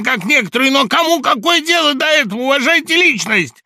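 high, loud, fevered rant; hysterical tirade. A narrator's reading. Laevsky ranting at Samoylenko, shrill high hysterical shouting. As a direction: spit out every grievance, near hysteria.

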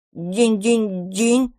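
slow, hesitant little bell; little dragon unsurely confirms with a hesitant bell; unsure ding. Acted. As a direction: ring it timidly, unsure. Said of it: "неуверенно подтвердил".

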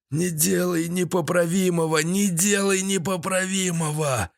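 put-on high, strained old villain's plea; hoarse, high-pitched begging; wheezy croak. A narrator's reading. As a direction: croak out a pleading warning. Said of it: "захрипел под шкафом Седой".

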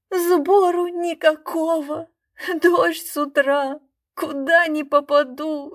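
high, slow tearful plea; crying. A narrator's reading. Magician weeping to the crowd about no takings, tearful and slow. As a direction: sob out the plea for a kopeck. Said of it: "и вдруг заплакал".

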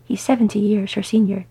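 understated grumble; grumbling. Acted. Glóin objecting to Beaufort's age, grumbling. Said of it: "he grumbled".

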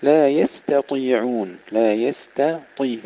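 slow "يستطيعون" with thin ت and full ط; light ta, heavy Ta. Shown as a demonstration. Teacher contrasts the two letters for learners, light then heavy. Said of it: "ترقيق التاء وتفخيم الطاء".

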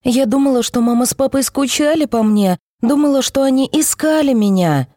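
put-on high hurt girl's voice; a child near tears; tearful child. A narrator's reading. Girl tearfully reproaches parents. (детская обида, голос выше, со слезами)

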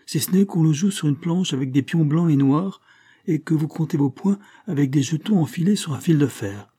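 put-on a touch of a child's lively chatter; eager little boy. Boy telling the count about his favourite game, lightly voiced and eager.

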